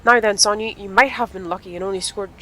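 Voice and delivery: lightly voiced brisk vet; tut-tut like a vet checking a patient. Vet examining Sonya with no helmet, lightly voiced brisk tone.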